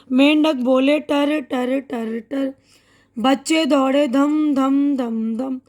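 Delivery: put-on slow, sing-song rhyme for children; poem recital. Shown as a demonstration. Teacher reciting a rain poem to young pupils, slow sing-song. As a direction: recite the poem slowly, with drawn-out sound words.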